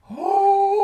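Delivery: high sung "Oh" like a heavenly choir; refrigerator hum. Retold or imitated. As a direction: hold a high angelic note. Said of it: "you could almost hear the refrigerator going".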